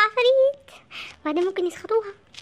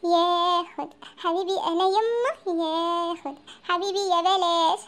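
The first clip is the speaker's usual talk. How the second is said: mock crying; 3 semitones lower, slower than usual. Possessed mother's mock lament.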